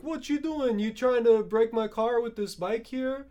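put-on high, indignant yell at a kid; angry man voice. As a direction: shout it up high, offended. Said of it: "He's like".

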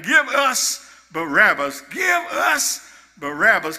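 a mock crowd chant, growing to a shout; crowd yelling. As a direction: chant it like the mob outside. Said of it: "He hears the crowd yelling".

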